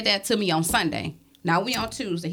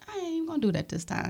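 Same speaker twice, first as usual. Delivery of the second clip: muttered resolve; 6 semitones higher, 8 dB quieter than usual. Retold or imitated. Mother retelling her inner thoughts.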